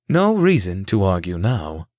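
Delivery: slow, even robotic speech; flat machine delivery. Acted. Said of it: "his robotic voice".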